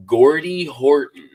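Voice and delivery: Jason Bateman skit. Retold or imitated. Host quoting a favorite Canadian name skit, comic imitation. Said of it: "he did this, like, skit".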